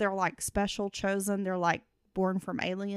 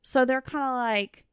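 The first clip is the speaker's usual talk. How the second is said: robot voice; 5 semitones higher than usual. Pretend. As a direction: drone it out like a robot. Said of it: "I should tell you about Futuretrons in a robot voice".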